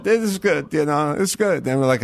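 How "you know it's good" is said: put-on apathetic Hispanic accent. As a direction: shrug it off in a thick accent. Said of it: "the apathetic Hispanic".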